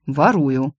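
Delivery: matter-of-fact. Acted. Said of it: "буднично ответил ящер".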